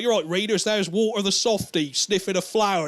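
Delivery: lightly hammed-up address to young readers; comic-strip announcer. Comic narrator tells readers about Walter the Softy, mock announcer.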